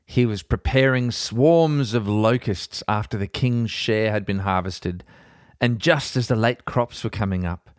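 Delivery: measured, earnest Bible reading; podcast host reading scripture aloud. Acted. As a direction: read the chapter with gravity. Reads Bible chapter aloud.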